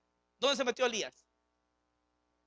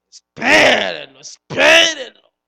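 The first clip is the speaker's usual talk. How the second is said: urgent call; 3 semitones higher, 18 dB louder, slower than usual. Acted. Preacher urges the congregation.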